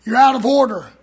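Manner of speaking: stern rebuke. Retold or imitated. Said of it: "I said".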